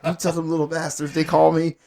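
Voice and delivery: mildly heated imitation of losing your temper. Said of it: "So I, I lost it".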